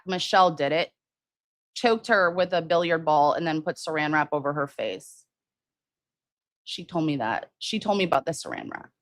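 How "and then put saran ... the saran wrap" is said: softer, hushed telling of a grim detail. Real, not acted. Streamer telling viewers the saran wrap detail, hushed. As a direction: drop your voice for the gruesome part. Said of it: "I don't know why I'm whispering".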